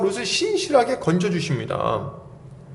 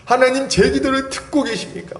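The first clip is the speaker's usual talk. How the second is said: higher-pitched mock prayer; pleading prayer; 5 semitones higher than usual. Congregant asking if God hears prayers, mock pleading. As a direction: imitate a believer pressing God for an answer. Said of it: "맨날 기도할 때 하는 얘기가 뭐예요?".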